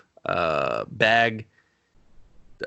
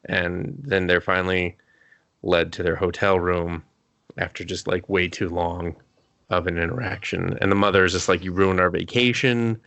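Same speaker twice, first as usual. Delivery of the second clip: low, subdued recap; unenthused, epitaph-like delivery; like reading an epitaph; 3 semitones lower than usual. Real, not acted. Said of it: "you're reading it like a epitaph".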